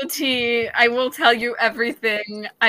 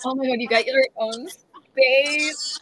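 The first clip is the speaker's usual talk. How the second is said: higher, drawn-out excited exclamation; thrilled retold reaction, pitched up and slow; excited hype; 4 semitones higher, 3 dB louder, slower than usual. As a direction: gush slowly with excitement, stretching the words. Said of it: "I got so excited".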